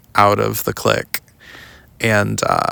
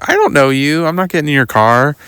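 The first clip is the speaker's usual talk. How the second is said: louder firm refusal; 6 semitones higher, 6 dB louder than usual. Retold or imitated. Refusing a stranger's car.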